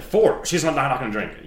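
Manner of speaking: mock dramatic outburst. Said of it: "I just didn't want you to be like".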